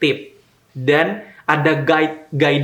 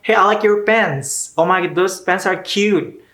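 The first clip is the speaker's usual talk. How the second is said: much higher, slow bubbly praise; gushing American compliment; 5 semitones higher than usual. Retold or imitated. A stranger praising your pants, mock gushing. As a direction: coo over someone's pants.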